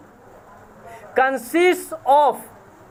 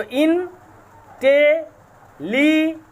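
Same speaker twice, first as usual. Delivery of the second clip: slow syllable demo; much slower than usual. Shown as a demonstration. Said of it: "five syllables".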